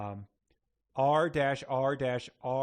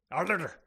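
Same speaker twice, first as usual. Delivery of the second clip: Scottish growl; 5 semitones higher than usual. Acted. End of shouted Scottish performance.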